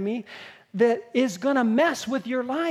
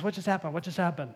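soft, lower, subdued questions; peaceful, dazed; 4 semitones lower, 6 dB quieter, faster than usual. Acted. Freed man coming round after the demon leaves, peaceful. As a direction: ask it quietly, as if just come round. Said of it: "then he goes peaceful".

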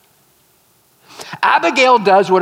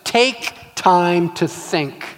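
slow deliberate; much slower than usual. Shown as a demonstration. Preacher teaching the first step, slow and deliberate. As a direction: let each word land. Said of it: "first step".

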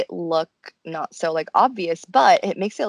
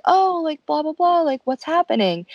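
casual guy voice; 8 semitones higher than usual. Retold or imitated. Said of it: "He was just like".

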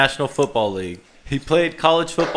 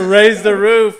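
hype cheer; 5 semitones higher, 5 dB louder, slower than usual. Real, not acted.

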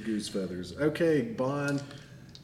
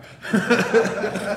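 loud laugh; 9 semitones higher, 9 dB louder than usual. Real, not acted. DM laughs at geese.

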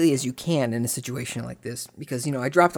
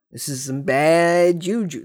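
ominous warning; 2 semitones higher, 4 dB louder, slower than usual. Retold or imitated.

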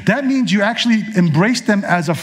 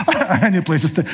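laughing quote. Pretend. Joking Jesus needs an Airbnb.

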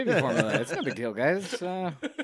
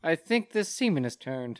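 slow, laughing through a mock complaint; laughing mock quote; 3 semitones higher, slower than usual. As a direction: drag it out while laughing.

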